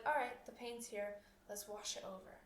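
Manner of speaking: stubbed toe demo, relaxed and easy; relaxed acceptance. Shown as a demonstration. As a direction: breathe out and accept the pain. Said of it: "just let it wash over you".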